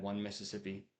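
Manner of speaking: soft counting under the breath; hushed one-Mississippi count; counting in your head. Shown as a demonstration. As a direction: count it quietly as if to yourself. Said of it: "count in your head".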